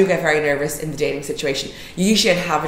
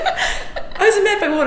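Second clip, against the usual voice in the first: mocking imitation; slower than usual. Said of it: "He was like".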